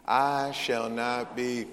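slow, measured "I shall not be", leading up to MOVED; stress toward MOVED. Shown as a demonstration. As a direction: hold back each word before MOVED. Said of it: "put the emphasis on moved".

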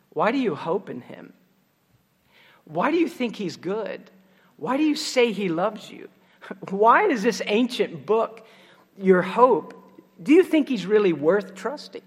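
acted taunt, sowing doubt with each question; taunting accuser. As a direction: voice the accuser challenging a believer's trust. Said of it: "a taunting voice".

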